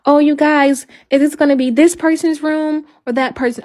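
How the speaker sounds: lightly voiced eager mom asking which room; cheerful planning voice. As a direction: imitate happily asking family about rooms. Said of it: "I can't even say".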